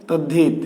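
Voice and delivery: "তদ্ধিত" joined as tad-dhit; spoken form. Shown as a demonstration. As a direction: double the d in "তদ্ধিত", aspirated release. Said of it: "কিন্তু আমরা উচ্চারণ করি".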